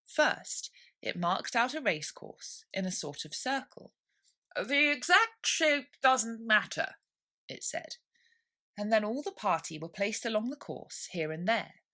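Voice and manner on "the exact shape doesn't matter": dodo dismissive. A narrator's reading.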